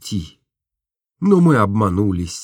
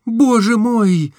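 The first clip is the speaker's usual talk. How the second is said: high, slow exclamation; exasperated Nastenka; 9 semitones higher, 4 dB louder, slower than usual. A narrator's reading. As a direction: interrupt him, impatient. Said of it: "перебила Настенька". (высоко и медленно, нетерпеливо)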